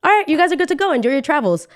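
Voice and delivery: high-pitched, imitated send-off; upbeat staff member. Staff member clearing passengers to board, upbeat. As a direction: put on an official's breezy high voice. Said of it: "the guy takes our picture and says".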